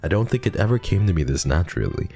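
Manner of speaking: Yuri voice. Acted. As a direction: play the shy bookish girl praising him.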